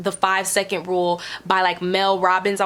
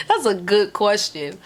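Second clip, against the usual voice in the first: giggling through the words. Real, not acted. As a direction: laugh it out loosely. Laugh on the repeated phrase.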